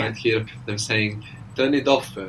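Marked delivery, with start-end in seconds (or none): 1.6-2.2 Italian accent. Shown as a demonstration. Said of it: "hear this in Italian accents in English".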